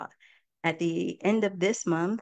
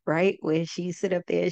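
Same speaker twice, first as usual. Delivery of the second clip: usual speaking voice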